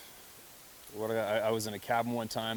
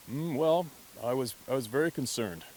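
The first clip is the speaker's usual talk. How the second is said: understated grandfather; 3 semitones higher, 4 dB louder than usual. Retold or imitated. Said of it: "He would not say he was scared".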